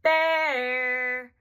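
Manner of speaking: "bear" stretched long, swooping up and then down; rise-fall on BEAR. Shown as a demonstration. Therapist changing intonation to highlight a word, "bear" long, up then down. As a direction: sing out "bear" high, then let it fall. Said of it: "goes up and then down".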